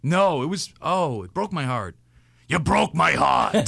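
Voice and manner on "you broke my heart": slow, hushed Michael Corleone; Godfather quote. Retold or imitated. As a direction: deliver it slow like a wounded mob boss. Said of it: "doing lines from The Godfather".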